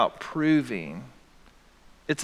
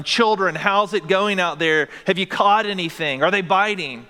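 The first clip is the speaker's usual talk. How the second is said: higher-pitched call across water, lightly raised; mild mock yell; 5 semitones higher, 4 dB louder than usual. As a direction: imitate someone calling out to a distant boat. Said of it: "he yells out to them".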